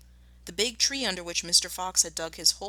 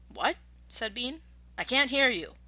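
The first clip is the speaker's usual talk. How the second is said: higher, puzzled voice of a deaf man; deaf Bean; 6 semitones higher than usual. Acted. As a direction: strain to hear, ask back up high.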